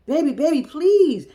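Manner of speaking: put-on begging baby please, rising high and loud; mock-plead like a desperate man; hammed-up begging husband. Husband pleading with wife, quoted.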